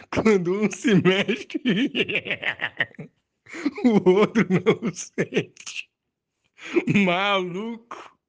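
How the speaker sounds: laughing. Real, not acted. Laughing while recalling commercial.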